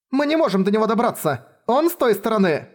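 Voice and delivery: high, pressing explanation; desperate urgency. Acted. Girl explaining the boy is beyond the fence, high desperate urgency.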